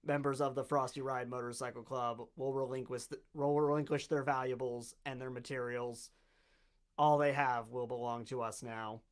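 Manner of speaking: low, quiet giant robot announcement; loudspeaker robot voice. Acted. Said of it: "a booming voice out of a loudspeaker on the giant robot".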